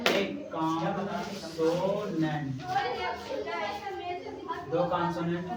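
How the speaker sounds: very slow dictating; dictation pace. Shown as a demonstration. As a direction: dictate word by word for writing. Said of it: "तो लिखो".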